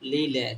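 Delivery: লিলে sounded as two syllables, li-le; L syllable drill. Shown as a demonstration. Teacher showing L with E, sounded out as li-le. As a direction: say লিলে with a clear L on both syllables. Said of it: "এল এর উচ্চারণ লয়ের মতো".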